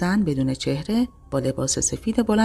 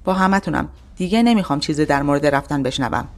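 a touch louder, irritated father; angry; 4 dB louder than usual. Acted. Father scolds his daughter at dinner, irritated and louder. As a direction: scold the family, fed up. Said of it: "با عصبانیت گفت".

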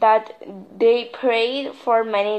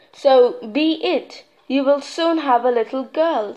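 goddess voice; 3 semitones higher than usual. Acted. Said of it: "said the goddess".

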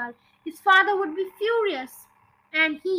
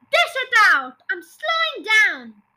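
loud, raised-pitch order; impatient yell; 5 semitones higher, 7 dB louder than usual. A narrator's reading. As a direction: yell it urgently, stretching the end. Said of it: "she yelled".

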